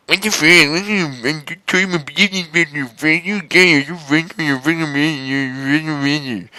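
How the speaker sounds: high, stumbling angry outburst; high mock-angry rant. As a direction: spit it out in outrage. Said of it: "I said angrily".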